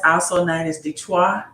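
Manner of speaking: Detroit said the French way, Detwa; playful fake French accent on Detroit; joking Mississippi French twist on Detroit; mock Mississippi French. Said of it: "in my Mississippi French voice".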